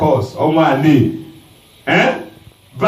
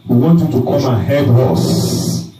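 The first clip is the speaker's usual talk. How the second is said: a hint of humble elders asking; elders pleading; 5 semitones lower than usual. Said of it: "What we're going to tell him".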